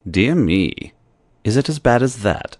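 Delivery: mock consternation. A narrator's reading. Chauvelin teasing Marguerite, low mock dismay. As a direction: feign alarm, tongue in cheek. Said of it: "he asked in mock consternation".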